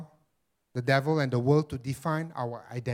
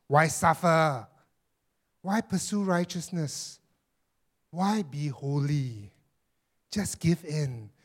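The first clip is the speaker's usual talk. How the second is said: sinister devil voice. Acted. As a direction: tempt them like a scheming devil. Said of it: "I'm using my sinister voice again".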